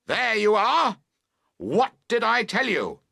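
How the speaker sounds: high, loud triumphant I-told-you-so; calling out. Acted. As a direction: crow it across the fallen tent. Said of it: "you both call out".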